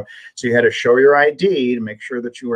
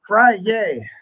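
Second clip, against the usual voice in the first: high-pitched celebratory call, falling at the end; playful cheer; 10 semitones higher than usual. Real, not acted. Co-host echoing the Friday cheer, high and playful. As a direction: sing out the day with glee.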